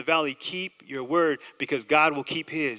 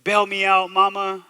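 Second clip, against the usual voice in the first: higher-pitched mock begging; mock jailhouse pleading; 4 semitones higher, 4 dB louder than usual. Jailed man bargains with God to get out, mock pleading. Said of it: "if you've ever been in jail".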